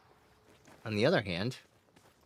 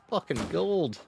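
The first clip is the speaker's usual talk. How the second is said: excited praise; 7 semitones higher, 3 dB louder than usual. Real, not acted. Praising a shot.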